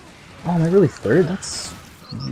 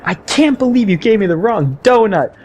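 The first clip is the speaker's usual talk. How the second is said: high mock child complaint; high kid voice, a touch louder; imitating offended kid; 9 semitones higher, 4 dB louder than usual. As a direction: whine it like an offended little kid. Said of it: "they both looked at me and said".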